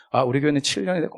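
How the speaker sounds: quick, matter-of-fact imitation of a cool pastor; cool and blunt. Pastor briefing a newcomer, imitated cool bluntness. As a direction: rattle it off coolly, unbothered. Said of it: "막 엄청 쿨하게".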